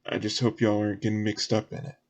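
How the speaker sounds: casual, folksy word of caution; lightly voiced local. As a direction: caution them in a light Southern voice. Game master voices a character.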